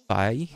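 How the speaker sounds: "five" with the final v dropped; learner's "five" without its last consonant; mispronounced five. Retold or imitated. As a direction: say "five" as "fai". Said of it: "not five, but five".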